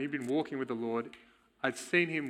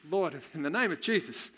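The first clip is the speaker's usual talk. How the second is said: louder mock command to the spirit; imitating a commanding prayer; 3 semitones higher, 3 dB louder than usual. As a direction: retell the mentor ordering the spirit out. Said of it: "he starts commanding".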